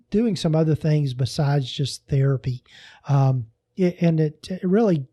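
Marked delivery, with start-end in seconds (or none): 3.1-5.0 stumbling over the words; halting restarts, tripping on words; stuttering. Real, not acted. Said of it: "Sorry, I'm stuttering so much".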